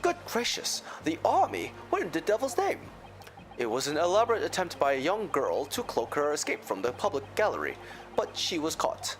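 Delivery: stern judge. Acted. Voices the judge in court.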